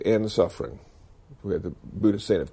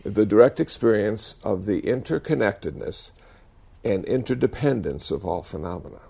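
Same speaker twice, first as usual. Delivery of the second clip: slow, each word spelled out clearly; over enunciating. Shown as a demonstration. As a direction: say it again slowly and carefully. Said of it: "I'll say it one more time slowly".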